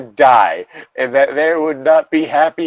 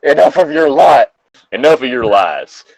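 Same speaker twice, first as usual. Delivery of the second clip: brave exclamation; 4 dB louder than usual. Acted. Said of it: "Dumbledore exclaimed bravely".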